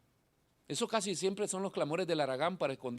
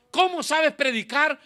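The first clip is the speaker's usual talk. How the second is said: admiring churchgoer; 11 semitones higher, 13 dB louder than usual. Retold or imitated. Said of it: "Si alguna vez le dicen".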